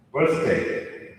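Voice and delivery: "birthday" in a neutral American accent. Shown as a demonstration. Coach showing the second word, neutral American accent. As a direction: pronounce it with an American English accent. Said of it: "American or someone with a neutral English accent".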